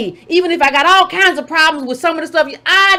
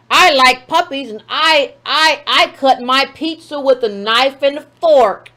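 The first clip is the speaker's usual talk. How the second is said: mocking Leffler; 4 semitones lower, slower than usual. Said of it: "That's what she says".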